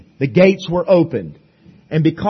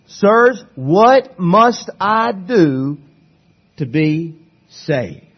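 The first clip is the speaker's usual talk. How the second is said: desperate plea; 2 semitones higher, 4 dB louder, much slower than usual. Retold or imitated. Jailer's trembling question.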